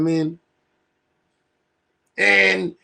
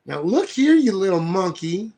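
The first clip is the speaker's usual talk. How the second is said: put-on Southern accent. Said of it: "super Southern accent".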